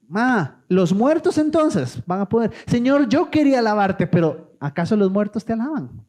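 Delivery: mocking, needling question to God; sarcastic. Preacher voicing a psalmist's sarcasm at God, mocking. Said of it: "Está siendo sarcástico".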